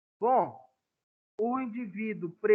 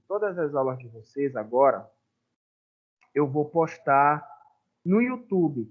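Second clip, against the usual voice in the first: louder, projecting to the class; raised announcing voice; 10 dB louder than usual. Real, not acted. Teacher announcing the YouTube links to students, loud and projecting. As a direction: call the notice out so everyone hears.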